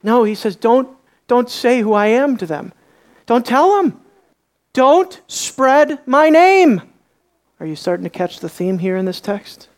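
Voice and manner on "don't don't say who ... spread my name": firm command. Acted. Jesus hushing the demons.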